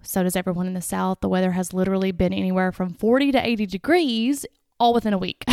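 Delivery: stuffy, nasal from sinus trouble. Real, not acted. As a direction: speak through a blocked nose. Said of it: "I'm sorry if I sound nasally".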